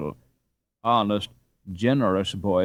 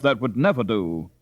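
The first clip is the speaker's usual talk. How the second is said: higher, louder, slow firm husband; firm old father; 5 semitones higher, 5 dB louder, slower than usual. Acted. Father overruling his wife, firm and slow. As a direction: overrule her kindly but firmly.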